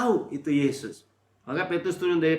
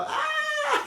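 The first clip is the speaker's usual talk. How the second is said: imitating a baby's cry. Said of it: "Kalau anak bayi kan nggak tahu apa".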